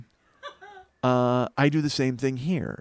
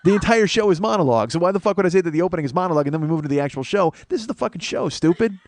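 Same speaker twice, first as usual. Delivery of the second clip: exasperated rant; 5 semitones higher, 4 dB louder, faster than usual. Real, not acted. Exasperated rant about the monologue format.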